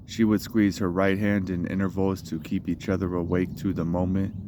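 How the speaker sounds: measured spoken-word recital, line openings pushed; poetry reading. Acted. Poet reads own poem in the park, measured recital. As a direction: recite it as a poem, pausing between phrases.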